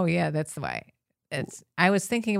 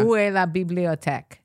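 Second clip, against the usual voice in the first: French phrase. Shown as a demonstration. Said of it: "I have to teach you a little French".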